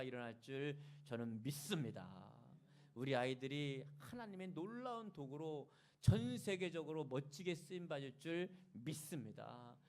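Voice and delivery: slow, stretched words with swelling emphasis; emphatic preaching. Real, not acted. Preacher urges congregation to pray through crisis, emphatic measured preaching. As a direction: drive each promise home to the congregation.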